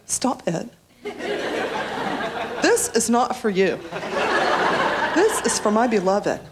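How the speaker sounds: huffy, mock-offended young woman; playing up wounded dignity; youthful indignation. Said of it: "filled with that youthful female indignation".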